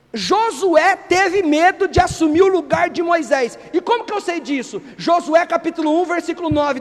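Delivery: usual speaking voice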